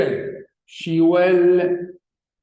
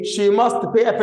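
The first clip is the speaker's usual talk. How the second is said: slow read-out; 2 semitones higher, much slower than usual. Shown as a demonstration. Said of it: "بقول إيه؟".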